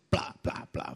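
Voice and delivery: quick "plá" thuds; imitated head banging. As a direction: mimic repeated knocks of a head. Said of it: "Batia com a cabeça". (imitando batidas de cabeça)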